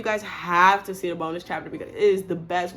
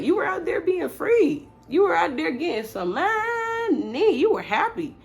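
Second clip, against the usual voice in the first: mock sassy retort; 9 semitones higher, 3 dB louder than usual. Girl listing his freedom back at him.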